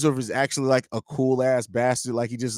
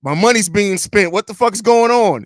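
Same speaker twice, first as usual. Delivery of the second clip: put-on high, alarmed old owner; startled rich boss; Jerry Reinsdorf voice; 5 semitones higher, 4 dB louder than usual. Jerry voiced waking to spent money.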